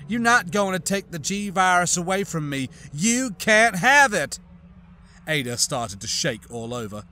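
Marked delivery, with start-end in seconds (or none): 0.1-4.4 guard the virus furiously; possessive fury. Acted. Scientist refuses to give up virus.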